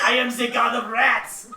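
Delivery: put-on loud, high French-accented cat. Cat declares itself to the seer, loud French accent. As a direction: proclaim it loudly in a French accent. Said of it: "You gave me a French cat".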